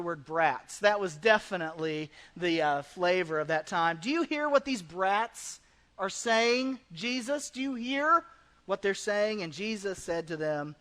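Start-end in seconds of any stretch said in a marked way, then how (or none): 4.0-9.4 indignant priests. Acted. Religious leaders complaining to Jesus, indignant and outraged. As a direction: whine to Jesus about the brats. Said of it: "They were indignant and they said to Jesus".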